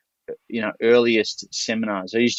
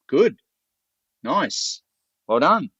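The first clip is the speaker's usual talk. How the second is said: high, bright praise for a small win; pleased praise; 5 semitones higher, slower than usual. Retold or imitated. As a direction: reward him with quick praise. Praising Cam's entry.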